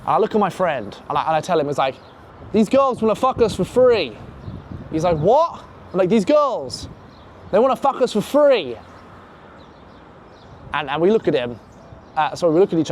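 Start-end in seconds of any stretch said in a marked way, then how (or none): 2.5-4.2 higher, slow incredulous announcement; retold disbelief. Retold astonished news to friend. 5.2-5.6 high-pitched mock shocked question; imitated astonishment. Retold friend's astonished reaction. 6.1-8.8 higher, emphatic incredulous repeat; retold disbelief. Repeats astonishing news to friend.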